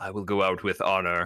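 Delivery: muttered under breath. Voicing an enemy facing a player, muttered under his breath. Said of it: "under his breath, just enough for you two to hear".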